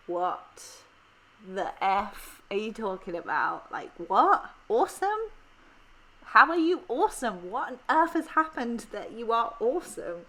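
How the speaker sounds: mock outrage at a cheerful answer; baffled Brits. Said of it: "they would be like".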